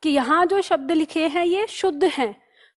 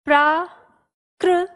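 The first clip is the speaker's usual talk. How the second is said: प्राकृतिक drawn out slowly syllable by syllable; slow dictation; 3 dB louder, much slower than usual. Shown as a demonstration. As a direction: spell it slowly for the class. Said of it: "इस तरह से".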